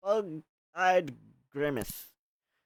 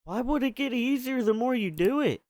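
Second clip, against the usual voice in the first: baffled question; 9 semitones higher than usual. Real, not acted. Baffled reader asides.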